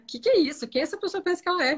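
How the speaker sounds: high-pitched, affronted questioning; indignant self-defence. Acted. Partner reacting to an insult, indignant. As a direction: act out someone bristling at an attack. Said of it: "entrar no modo autodefesa".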